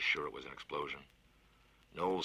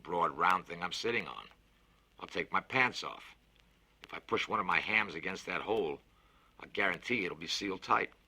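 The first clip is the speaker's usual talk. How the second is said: a lightly voiced big bluff man, louder; hearty Fats; 2 semitones higher, 5 dB louder than usual. Fats offers to plug the leak himself, bluff and louder. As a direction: boast it cheerfully, a touch louder. Konski's bold patch plan.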